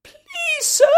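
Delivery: put-on high, small childlike plea; timid voice. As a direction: ask shyly like a scared little girl. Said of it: "in a timid voice".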